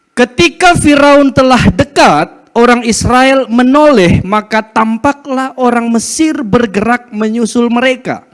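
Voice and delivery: slow, loud, solemn Bible reading; proclaiming the passage from the pulpit; scripture reading. Acted. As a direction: read the verses out slowly and with weight. Reads scripture aloud to congregation.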